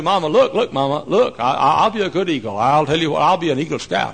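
excitable little one begging, building to a high shout; acted pleading. Eaglet begs mama to keep him, acted pleading. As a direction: bargain loudly with mama.

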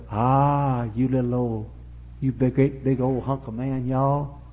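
put-on southern-accented cooing flattery; Delilah. Temptress flattering Samson, southern accent. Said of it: "Bad women always have southern accents".

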